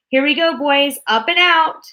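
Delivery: high, loud triumphant cry; gleeful Wonka. A narrator's reading. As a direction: launch with glee.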